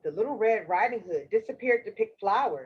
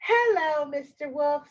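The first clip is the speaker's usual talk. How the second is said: lightly voiced polite little girl; a hint of a girl, pitched up; Little Red Riding Hood; 2 semitones higher than usual. Girl answers Mister Wolf, lightly voiced little-girl greeting. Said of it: "said Red Riding Hood".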